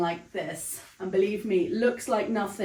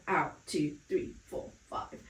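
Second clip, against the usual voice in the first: instructor counts the exhale, voice fading to breath; breathy counting; 6 semitones lower, 8 dB quieter than usual. Shown as a demonstration. Pilates instructor counting breaths, fading to breathy. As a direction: let the count fade out on the breath.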